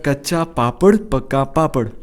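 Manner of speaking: measured model of a tongue twister; slow demonstration. Shown as a demonstration. Host models it for a guest, slow demonstration. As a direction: lay out each word for a learner.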